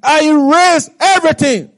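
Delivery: the king rebukes in anger; a stern king reminding of his mercy; angry king. Acted. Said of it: "the king got angry".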